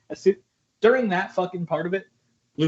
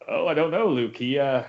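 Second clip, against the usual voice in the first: weary Obi-Wan; 5 semitones lower than usual. Pretend. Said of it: "Alec Guinness being totally done".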